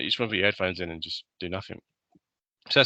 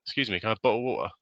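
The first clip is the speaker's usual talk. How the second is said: quick, crisp British "bottle of water" with the t sounds said clearly; British accent; 2 semitones higher, much faster than usual. Retold or imitated. British bloke asking in a Walmart for water, quick British accent. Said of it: "But he says it like".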